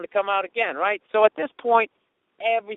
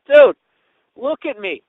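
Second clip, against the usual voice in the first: exasperated shout; 4 semitones higher, 11 dB louder, slower than usual. Real, not acted. Exasperated protest to fan.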